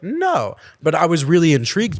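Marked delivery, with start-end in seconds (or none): 0.0-0.6 retold answer. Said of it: "I was like".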